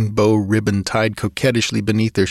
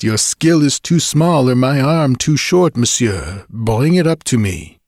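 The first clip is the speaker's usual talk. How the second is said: higher, teasing French lilt; flirtatious Creole woman; 4 semitones higher, 4 dB louder than usual. Acted. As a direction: coax him up playfully. Julie's flirtatious voice.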